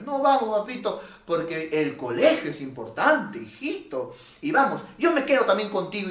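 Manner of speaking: coaxing a child to skip church, mildly mocking; a parent sweetly making excuses; indulgent parent. Preacher imitating a parent who tells the son to skip church, coaxing.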